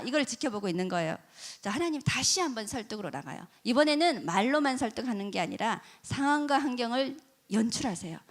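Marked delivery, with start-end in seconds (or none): none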